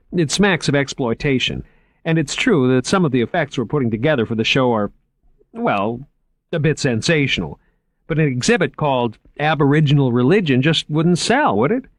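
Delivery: keen curator showing off his finds; eager curator. A narrator's reading. Curator showing Margot the vaults, lightly voiced eager man. Moriarty pleads for his show.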